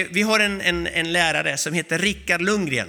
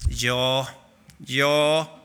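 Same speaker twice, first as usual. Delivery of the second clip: low, hushed, dumbfounded ja; stunned yes; 7 semitones lower than usual. Retold or imitated. Preacher showing his own stunned reaction, low awed ja. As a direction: let it drop out of you in awe. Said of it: "Jag blev så här".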